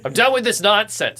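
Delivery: playfully hammed-up frustration; retold fed-up outburst. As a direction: act out having had enough. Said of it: "I said".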